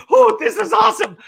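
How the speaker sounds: high, fast burst of fake glee; mock delight. Retelling his hopes as the site refreshes, high mock delight. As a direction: play up the false hope.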